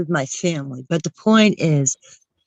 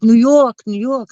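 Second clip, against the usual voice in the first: mock New York boast; 3 semitones higher, 3 dB louder than usual. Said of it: "she's always like".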